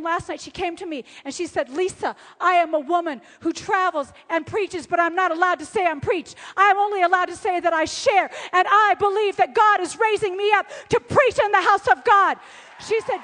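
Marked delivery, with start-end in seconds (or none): 1.7-12.4 fervent declaration. Retold or imitated. Friend declaring her call to preach, building fervour. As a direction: build steadily to a loud peak on the last word.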